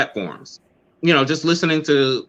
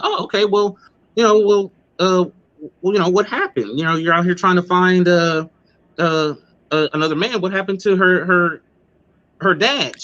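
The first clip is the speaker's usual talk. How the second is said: raised, fake-polite host voice; mimicking the host; 4 semitones higher than usual. Retelling how the host probed the guest, higher and fake-polite. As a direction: imitate the host fishing for the story. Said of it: "She's like".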